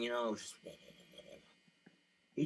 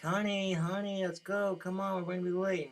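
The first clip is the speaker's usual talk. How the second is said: higher, louder hurrying of the wife; impatient husband; 8 semitones higher, 4 dB louder than usual. Retold or imitated. Husband rushing his wife to the party, impatient. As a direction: nag her to hurry up. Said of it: "you're like".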